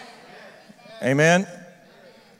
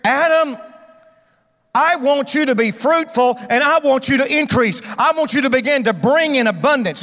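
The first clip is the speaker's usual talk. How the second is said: voicing God; 3 semitones higher than usual. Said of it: "God actually says here".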